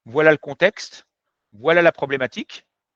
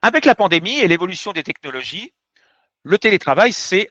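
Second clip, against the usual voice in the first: measured, formal exam opening; formal oral exam presentation; 3 dB louder than usual. Shown as a demonstration. Teacher demonstrating an exam talk to students, formal and measured. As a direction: present it like a candidate before the jury. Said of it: "je vais vous présenter une petite production".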